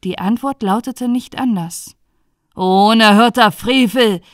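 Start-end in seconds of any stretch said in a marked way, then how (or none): 2.6-4.2 outraged judge's cry; loud burst of indignation; loud exclamation. Acted. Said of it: "rief er aus".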